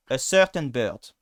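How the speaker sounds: slow "a certain bird" with schwa-like vowels; practice pronunciation. Shown as a demonstration. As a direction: say "a certain bird" slowly, deliberately. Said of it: "And so you work with this".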